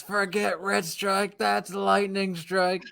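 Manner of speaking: slow, high announcer imitation; mock announcer quote. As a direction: stretch it like a dramatic announcer. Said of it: "He says".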